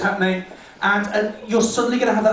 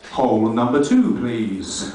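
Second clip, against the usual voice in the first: queue attendant calling; 9 semitones lower, slower than usual. Acted. Queue caller.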